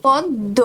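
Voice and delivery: "পদ্ম" split as pod, do; "পদ্ম" with a doubled d, syllable by syllable; correct pronunciation. Shown as a demonstration. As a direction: model "পদ্ম" in two clear syllables. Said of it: "এই শব্দের সঠিক উচ্চারণ কি".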